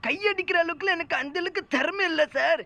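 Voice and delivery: mock-panicked excuses; flustered denial. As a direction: play a caught underling talking his way out. Flustered denial to the suspicious sir.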